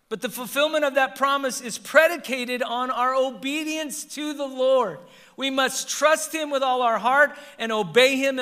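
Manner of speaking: forceful pulpit delivery; emphatic preaching. Real, not acted. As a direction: press each point on the congregation.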